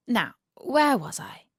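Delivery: whispered aside. Real, not acted. Narrator whispering back to the story. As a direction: hush it like a secret.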